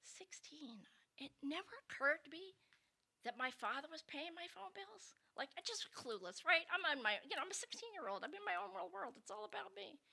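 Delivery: quiet aside. Real, not acted. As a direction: drop your voice to admit it. Soft aside about being clueless.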